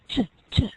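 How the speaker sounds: "t" sounded out by itself; isolated first sound. Shown as a demonstration. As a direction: say "T, t" as a single crisp t sound. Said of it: "That's what the students would have to say".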